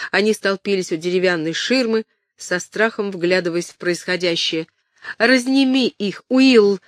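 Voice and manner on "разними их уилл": higher and louder, calling the cook; urgent shout. Acted. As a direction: bark the order across the hall. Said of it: "крикнула Кэтрин".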